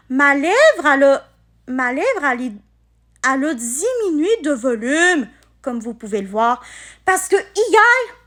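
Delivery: swollen mouth, words a bit thick; after wisdom teeth. Real, not acted. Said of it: "je galère à articuler".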